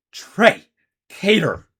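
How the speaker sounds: high, loud shrill call; shrill summons from the House Warden. Acted. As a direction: shriek the names sharply. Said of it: "he said shrilly".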